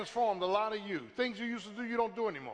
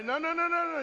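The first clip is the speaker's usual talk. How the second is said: emphatic no; 7 semitones higher, 4 dB louder than usual. Real, not acted. Preaching, emphatic refusal.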